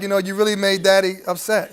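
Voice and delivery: softly, low, play-acting an upset dad; lightly acted fatherly scolding, low and subdued; disappointed daddy act. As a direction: put on a mildly reproachful parent act. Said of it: "I'm just playing a role".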